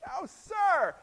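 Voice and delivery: preacher flatly rejecting the lax parent; emphatic no. Real, not acted. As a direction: shut it down hard. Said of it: "preacher rejects the lax parent".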